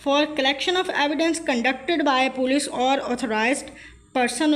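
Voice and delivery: each word of the legal statement read out very slowly; slow dictation read. Shown as a demonstration. Tutor reading an exam question to students, slow dictation.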